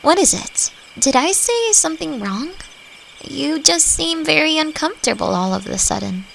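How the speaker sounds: gently anxious, checking on a friend; concerned. Acted. Notices the listener's discomfort.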